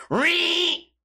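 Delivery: high shrill engine whine; revving car noise. Retold or imitated. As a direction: squeal like a revving muscle car. Imitating loud Mustang.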